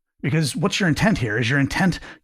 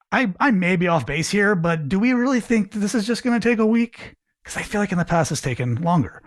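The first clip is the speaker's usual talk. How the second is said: tentative; 5 semitones higher than usual. Shown as a demonstration. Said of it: "You could say".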